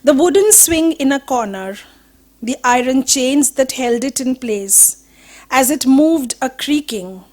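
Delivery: measured recitation with pauses between phrases; poetry reading. Acted. Poet recalling what remains of a house, measured poetry reading. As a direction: list each remembered detail as its own line of verse. Reads own poem aloud.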